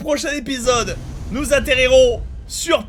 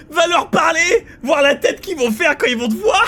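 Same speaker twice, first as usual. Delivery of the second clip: louder, higher, cracking up; laughing while talking; 6 semitones higher, 4 dB louder than usual. Real, not acted. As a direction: talk through the giggles. Laughing at game.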